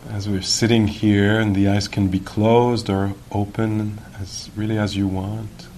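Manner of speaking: measured guiding voice with long pauses; guided meditation. Real, not acted. Teacher guiding sitters to notice awareness, calm and unhurried. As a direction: lead them gently, leaving long silences.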